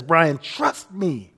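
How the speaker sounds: slow, tender reassurance; gentle reassurance. Retold or imitated. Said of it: "he says".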